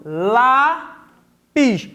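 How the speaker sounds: "Lápis" as a long "Lá", pause, then "pis"; "Lápis" pulled apart syllable by syllable; split into syllables. Shown as a demonstration. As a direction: divide "Lápis" into two separate beats. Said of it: "Vamos fazer a divisão".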